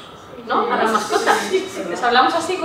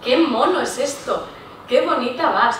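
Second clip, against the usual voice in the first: affectionate endearments. Shown as a demonstration. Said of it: "Utilizamos nombres como".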